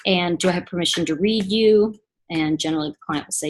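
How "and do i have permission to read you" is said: calm request. Shown as a demonstration. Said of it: "And I might say to you".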